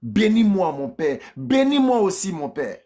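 pleading, then falling away; understated wronged son's plea; a touch of bitter begging; mild bitter cry. Acted. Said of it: "Il cria avec amertume".

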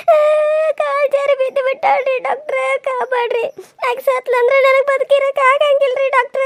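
fake crying. Wife begs the doctor to save her sister, fake tearful pleading. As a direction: sob and beg to win the doctor over, hammed up. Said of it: "ನನ್ ಹೆಂಡ್ತಿ ಎಷ್ಟರ ನಾಟಕ ಮಾಡ್ತಾಳೋ".

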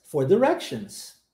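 "directions" with first syllable "di", short i; "directions" with a short "di" start. Shown as a demonstration. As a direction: say "directions" as "di-REC-shuns". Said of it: "vamos tentar essa pronúncia".

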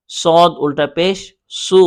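brisk, even spelling without stretching; quick spelling demo. Shown as a demonstration. Teacher showing how to spell a hard letter, brisk and even. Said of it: "তখন ওটা বানান করে পড়বেন".

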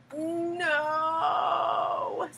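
lightly voiced snake's no; a hint of a creature refusing. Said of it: "said the snake".

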